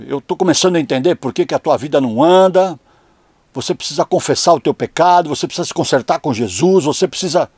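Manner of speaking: sermão acusatório, um pouco mais alto; bronca de mãe. Retold or imitated. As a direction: imitando a mãe que cobra confissão. Mãe confronta o filho na história. (bronca encenada de mãe crente)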